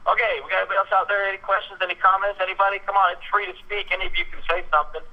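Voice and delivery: lightly voiced emcee egging the crowd on; quoting the emcee. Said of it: "the last words I hear him say are".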